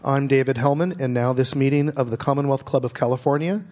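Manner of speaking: measured announcer close; formal sign-off. Acted. Host closes the broadcast in a steady announcer read.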